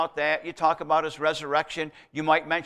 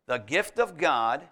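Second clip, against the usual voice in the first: "gift" set out slowly and deliberately; slow the phrase down to feature "gift"; stress on gift; slower than usual. Shown as a demonstration. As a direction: lean on the word "gift", unhurried. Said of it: "stress the word gift".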